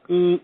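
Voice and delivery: short toneless "ee" meter sound; imitated meter noise. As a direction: mimic a meter needle reacting. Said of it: "my vibrational meter would go".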